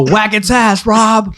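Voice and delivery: high, mock-urgent order; acted yell. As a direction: holler it like a ranch hand giving orders. Burly men ordering him in story.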